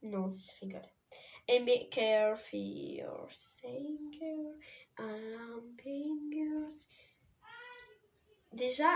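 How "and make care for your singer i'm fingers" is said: bad English accent. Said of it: "Mon accent est pourri".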